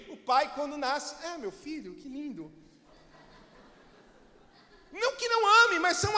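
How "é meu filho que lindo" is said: offhand father. Retold or imitated. Father's mild reaction.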